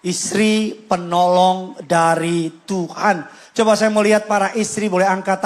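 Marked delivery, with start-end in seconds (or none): 0.0-3.3 slow, weighty announcement of the title; slow sermon title. Real, not acted. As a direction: proclaim the sermon title slowly. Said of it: "saya beri judul khotbah".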